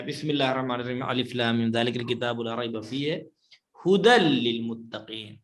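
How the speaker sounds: brisk recited verses from Surah Baqarah; quick Quran recitation. Acted. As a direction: run through the verses in reciting voice.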